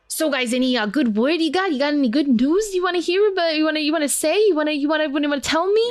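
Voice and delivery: a nosy crier begging the trio for news; eager town crier Perry. Acted. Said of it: "and goes".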